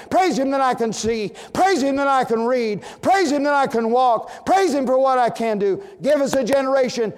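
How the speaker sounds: loud, high, ringing sermon delivery; full-force preaching. Acted. Preacher booming to the congregation in full-force preaching. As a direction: preach it out to the pews.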